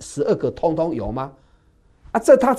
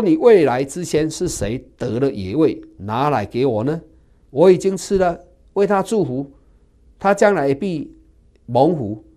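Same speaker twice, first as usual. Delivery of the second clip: trembling father; 3 semitones higher, 7 dB louder than usual. Acted. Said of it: "以扫就大大的战兢".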